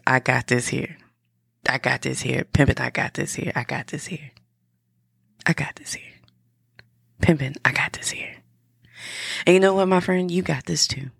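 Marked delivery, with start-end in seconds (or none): 0.1-8.4 Southern rapper voice. Shown as a demonstration. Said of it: "in your most Southern" rapper voice.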